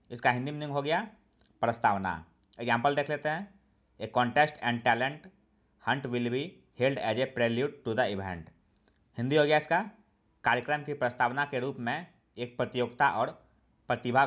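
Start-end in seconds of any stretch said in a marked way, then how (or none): 4.0-8.5 each English word read out very slowly and evenly; slow dictation reading. Shown as a demonstration. Teacher reading an example sentence to learners, slow and deliberate. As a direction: read it slowly, as if for students to write down.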